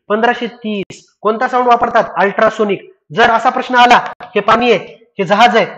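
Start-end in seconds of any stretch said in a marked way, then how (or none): 0.1-1.2 slow, deliberate repeat of पंधराशे तीस. Shown as a demonstration. Teacher repeating the answer to students, slow and deliberate. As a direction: spell out पंधराशे तीस slowly so it sticks. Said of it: "ध्वनीची speed किती?".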